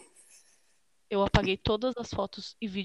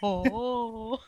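whispered gasp; 2 semitones higher than usual. Real, not acted. Reação sussurrada.

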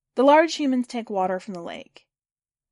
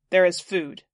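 louder, flat-timed machine call; robot's loud new voice; 3 semitones lower, 5 dB louder than usual. A narrator's reading. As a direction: call out like a robot speaker luring people. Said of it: "tell Hiker to use Hiker's new voice, eighty-five percent volume".

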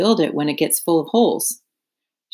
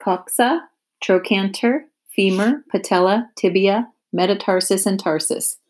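Wilbur repeating names; 2 semitones higher than usual. Acted. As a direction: sound out each strange word like a learner. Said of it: "Say those names again".

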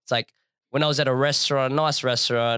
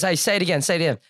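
eager prodding; 5 semitones higher, much faster than usual. Retold or imitated. Retold server eggs on customer.

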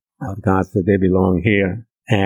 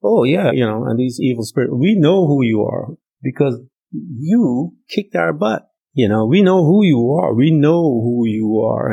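lightly voiced demons taunting, pitched up; a hint of taunting demons, higher; mocking demon voice; 4 semitones higher than usual. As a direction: sneer it like a cocky evil spirit. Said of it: "they said".

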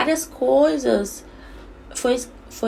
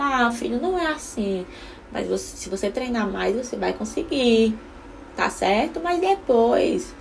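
gentle encouragement. Shown as a demonstration. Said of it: "quando ele erra ... eu falo".

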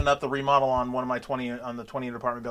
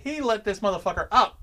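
laughing through the line; giggling in disbelief; 8 semitones higher, 5 dB louder than usual. Real, not acted. Laughing at his own story.

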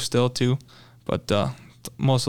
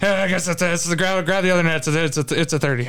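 urgent, higher-pitched stammering excitement; retold freaking out; 4 semitones higher, faster than usual. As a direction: relive the panic of landing a giant fish. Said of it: "I'm, like, freaking out".

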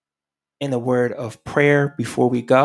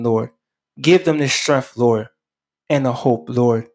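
earnest prayer voice that keeps calling on the Lord; closing prayer. Acted. Radio pastor prays over his listeners in earnest prayer. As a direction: plead for the listeners, phrase by phrase.

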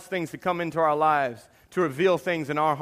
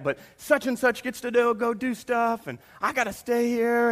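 mock frustration; 5 semitones higher than usual. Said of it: "I get frustrated and mad".

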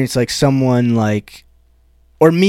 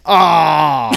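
mock sympathy. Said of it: "woman was like".

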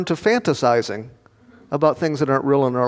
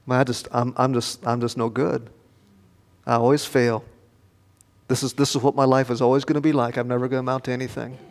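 defeated self-talk; 5 semitones lower, 5 dB quieter, faster than usual. Retold or imitated. Voicing self-defeat after failure.

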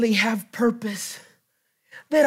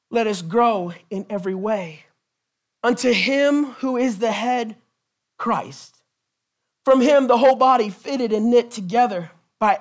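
scripture reading. Acted. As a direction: read the verses steady and reverent. Reads scripture aloud.

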